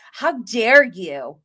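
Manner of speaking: slow, hammed-up indignation; mock offended. Alexia offended at being called a Rottweiler, mock-slow indignation. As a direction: drag out the offence like a diva. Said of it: "Alexia is so offended".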